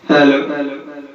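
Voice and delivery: cathedral echo. Shown as a demonstration. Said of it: "ইকোটি খুবই সুন্দর।".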